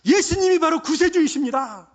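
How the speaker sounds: loud, high preaching shout; fervent confession. Shown as a demonstration. Preacher showing how to confess the Savior, shouted proclamation. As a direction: cry out the confession at full force. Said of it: "이렇게 고백하는 거예요".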